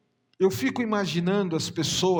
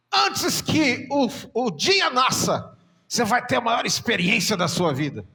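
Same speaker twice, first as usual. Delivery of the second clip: prophetic Enéas voice; 4 semitones higher, 5 dB louder than usual. Retold or imitated. Pastor prophesying to the sister in Enéas style, sing-song. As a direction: intone the warning like a booming prophet. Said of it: "Ele parecia o Enéas falando".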